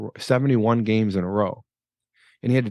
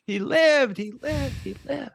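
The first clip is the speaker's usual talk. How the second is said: much higher, cheering voice that fades away; excited cheer; 13 semitones higher, slower than usual. Retold or imitated. Players cheering as the fallen man crosses the line, excited. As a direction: cheer like the team after he makes it. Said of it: "everyone's just like".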